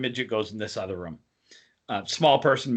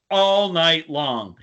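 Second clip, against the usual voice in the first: ordinary delivery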